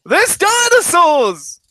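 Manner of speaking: high, drawn-out shout; alarmed guard. Acted. Tower guard spots the dinosaurs, alarmed high shout. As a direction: sound the alarm at full voice. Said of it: "one of the guards on the tower is like".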